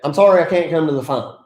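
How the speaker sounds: quick, rattled-off voicemail apology; brisk stock voicemail line; apologetic voicemail opener. Shown as a demonstration. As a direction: rush through a routine can't-answer message. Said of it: "Don't make a voicemail that leads in right away".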